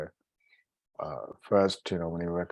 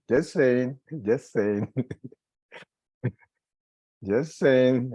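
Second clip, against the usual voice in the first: laughing disclaimer; 5 semitones higher, 5 dB louder, slower than usual. Real, not acted. Teacher teases students behind on practice, laughing disclaimer. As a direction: chuckle between the repeats, louder and higher. Joking after praising busy mother.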